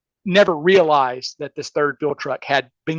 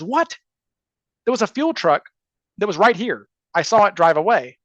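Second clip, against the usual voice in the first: retold incredulity; 2 semitones higher than usual. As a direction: protest in mock disbelief. Retold reaction to news of no fuel.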